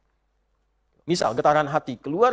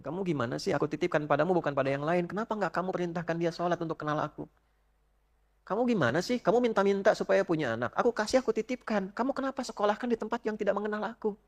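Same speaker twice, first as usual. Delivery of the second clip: softer, reproachful divine questioning; God questioning; 2 semitones higher, 7 dB quieter than usual. Acted. God questioning a parent on judgment day, soft reproach. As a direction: rebuke the parent quietly but firmly.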